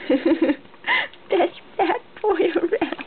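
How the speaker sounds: slow laughing repeat. Real, not acted. Mother repeating praise to her baby, laughing slowly.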